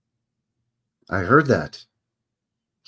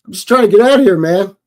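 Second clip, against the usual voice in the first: mock frantic singer; 9 semitones higher, 8 dB louder than usual. Voicing the singer fleeing the flood.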